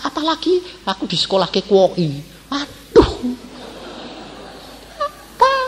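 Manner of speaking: comic wail to God, jumping high; half-hearted mock crying complaint, rising at phrase ends; retold tearful prayer. Pupil home from school complains to God, mock-tearful. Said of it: "Pulang nangis".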